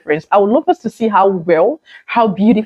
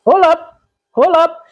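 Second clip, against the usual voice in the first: hold up; 9 semitones higher than usual. Retold or imitated. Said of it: "and I was like".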